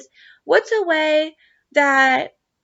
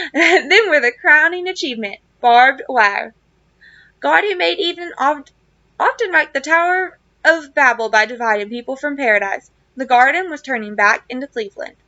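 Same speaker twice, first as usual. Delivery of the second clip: reading a novel aloud to the class, steady and clear; story narration. Acted. Teacher reading a chapter aloud to students, story narration. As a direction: tell the old gardener's story as you read it.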